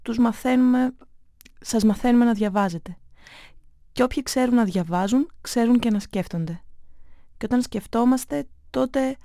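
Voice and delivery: a hint of a grave father, earnest and measured; lightly voiced father, turning serious; father explaining to his son, gently serious. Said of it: "Η φωνή του έγινε σοβαρή".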